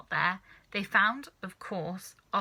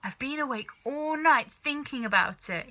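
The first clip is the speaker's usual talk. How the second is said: excited cry; 5 semitones higher, 4 dB louder than usual. A narrator's reading. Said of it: "he cried".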